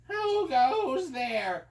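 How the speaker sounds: high, very slow, drawn-out wizard voice; slow wizard challenge. Acted. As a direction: stretch each word like a suspicious wizard. Wizard answers the door.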